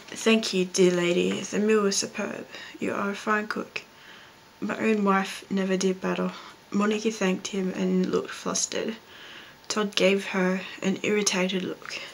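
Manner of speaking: reading aloud. Acted. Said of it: "grab a book and read a passage from it".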